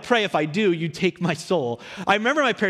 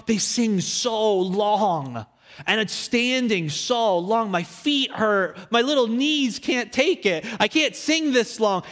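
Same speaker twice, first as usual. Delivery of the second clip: slow, higher drawn-out complaining; whiny kid; 4 semitones higher, slower than usual. Retold or imitated. Young boy whining to his mom about long worship, slow and higher. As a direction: stretch every complaint like a tired child. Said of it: "saying to my mom".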